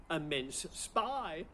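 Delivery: slow, delivered through a laugh; punchline he can't help laughing at. Real, not acted. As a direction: savour the pun, drawn out with a chuckle.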